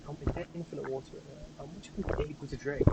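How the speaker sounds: lightly voiced teenage kid; a hint of a whiny teen; mock fourteen-year-old. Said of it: "That's what a fourteen-year-old sounds like".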